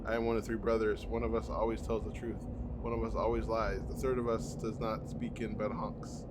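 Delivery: hint of a lofty old tree speaking; solemn tree voice. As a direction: read it as an old forest spirit. Reads talking tree dialogue.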